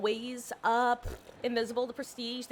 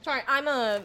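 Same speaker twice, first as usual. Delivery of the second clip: mouth full. Real, not acted. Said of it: "talking with my mouth full".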